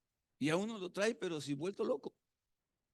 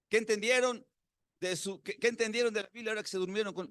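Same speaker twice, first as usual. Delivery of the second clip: teacher repeating quiz; 4 semitones higher than usual. Retold or imitated. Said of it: "teacher asks the question again".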